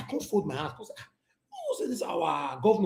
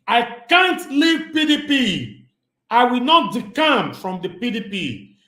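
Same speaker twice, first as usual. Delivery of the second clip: a hint of a louder, slower political speech; mock governor speech; 4 semitones higher, 4 dB louder, slower than usual. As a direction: deliver it like a rally promise. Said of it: "I wan quote am".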